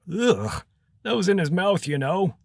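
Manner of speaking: high-pitched, squeamish protest; disgusted old wizard. Acted. Old wizard objecting to a cap from someone's mouth, high and disgusted. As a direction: open on a groan of disgust, stay high.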